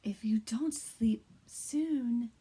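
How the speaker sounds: soft, hushed read-aloud; quiet bedtime reading. Shown as a demonstration. Teacher reads a bedtime story to kindergarteners, hushed. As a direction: lull little ones toward sleep. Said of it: "I'm gonna read this book a little quieter".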